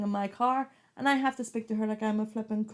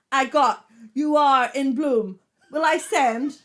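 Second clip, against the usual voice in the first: car assistant voice; 4 semitones higher, 10 dB louder, slower than usual. Retold or imitated. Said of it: "the car thing".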